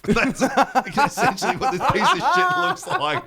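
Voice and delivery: cracking up in disgust; laughing. Real, not acted.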